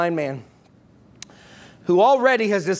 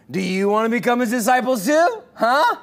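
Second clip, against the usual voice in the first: sarcastic; 4 semitones higher than usual. Retold or imitated. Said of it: "What a sarcastic and snarky way".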